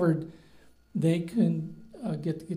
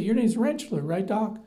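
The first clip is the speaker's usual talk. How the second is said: higher-pitched mock patient checking a name; imitated local patient; 4 semitones higher, 3 dB louder than usual. Local patient quizzing the new doctor, lightly mimicked. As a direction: play a local questioning the doctor. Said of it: "So they'd say".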